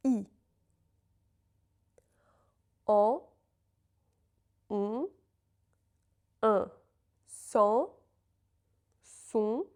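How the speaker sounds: each sound and word said clearly with pauses; repeat-after-me drill. Shown as a demonstration. Teacher leading a repeat-after-me drill, clear and slow. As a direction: model the vowels, then nasal word sets. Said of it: "Repeat after me".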